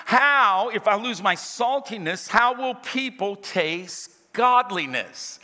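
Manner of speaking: deliberate, drawn-out scripture reading; slow down so each phrase lands. Shown as a demonstration. Preacher rereading a verse to the church, slowed down. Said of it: "I'm gonna slow down".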